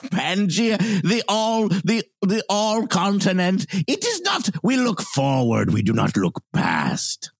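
cryptic bellhop speaking in riddles; lightly voiced mysterious riddle-speaker. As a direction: bellhop answering the guests in riddles. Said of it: "he's even kind of speaking in riddles".

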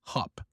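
HOP with a short open vowel, no glide. Shown as a demonstration. Teacher contrasting rabbit's jump, HOP with short vowel. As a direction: say "hop" without any OH diphthong. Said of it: "it sounds like another word".

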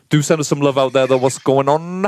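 smooth radio host sign-off. Acted. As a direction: lightly put on a radio presenter voice. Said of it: "Is that your radio voice?".

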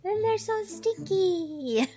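laughing. Real, not acted. Laughing about stinky sea lions.

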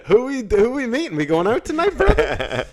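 loud, high hammed-up party invite; overexcited prison bro begging to go out; eager party bro. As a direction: egg him on like a party buddy. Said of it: "acting himself in jail".

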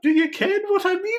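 put-on very high, loud Scottish old lady; hammed-up falsetto Scottish accent; Missus Doubtfire. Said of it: "Missus Doubtfire on the pirate ship".

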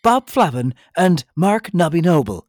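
slow, booming radio host intro. Real, not acted. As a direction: announce it like a DJ. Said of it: "Is that your radio voice".

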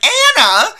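sharp high startled call; shouted name. Retold or imitated. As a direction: yell the name in alarm. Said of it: "and he was like".

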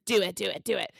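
loud, quick repeated urging; retold demand, punched out loudly; urgent egging-on. Acted quote urging partner on.

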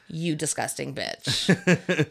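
slow, deliberate mock disgust; pretend contempt. Imagining the winner insulting the woman ringside, slow mock contempt. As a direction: draw out each word with scorn.

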